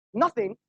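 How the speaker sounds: NOTHING set apart by pauses; nothing in italics. Retold or imitated. Debater quoting a rival's book, stressing NOTHING. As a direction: isolate the word NOTHING as if italicised. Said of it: "nothing with italics".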